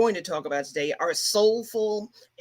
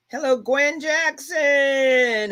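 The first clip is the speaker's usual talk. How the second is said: drawn-out, higher, delighted call of her name; happy greeting; 5 semitones higher, slower than usual. Real, not acted. Host greeting her sister in the live chat, slow happy call-out. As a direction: sing out the greeting to a family member, slow and bright.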